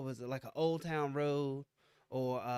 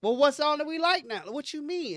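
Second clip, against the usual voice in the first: baffled dad; 8 semitones higher, 5 dB louder than usual. Retold or imitated. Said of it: "And I'm like".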